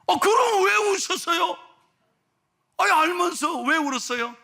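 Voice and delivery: high, loud, incredulous questions; acted shocked protest; astonished pastor. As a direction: burst out in bafflement. Pastor astonished she knew.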